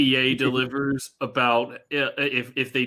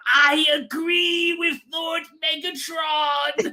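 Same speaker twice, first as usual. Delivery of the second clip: very high, slow shouted sycophant voice; Starscream-style toady; 13 semitones higher, slower than usual. Retold or imitated. Mocking demons as toadies sucking up to the strongest, in a shrill shout. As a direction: screech it like a groveling lieutenant. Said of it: "An army of Starscreams".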